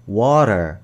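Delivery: water with the t tapped like a quick d; flap T. Shown as a demonstration. Teacher shows flapped t in water, quick tap. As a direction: flick the t in water. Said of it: "이렇게 튕겨주는 발음으로".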